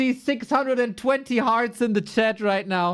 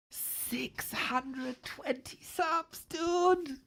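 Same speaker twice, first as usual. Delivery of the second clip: stunned hush; 3 semitones higher, 11 dB quieter, much slower than usual. Real, not acted. Stunned by donation total.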